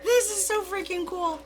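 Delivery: high excited praise; thrilled. Real, not acted. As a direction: gush over it. Excited over the gift.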